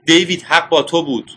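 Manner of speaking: high, loud cry of delight; joyful shout. A narrator's reading. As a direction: shout it while jumping for joy.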